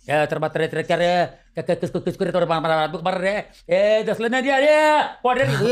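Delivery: rough Makadwal street-dialect quarrel, rising to a shout. Retold or imitated. Makadwal gang members in a street-dialect challenge. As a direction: imitate the Makadwal street dialect, picking a fight. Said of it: "ये language होती थी उनकी, माकड़ वालों की".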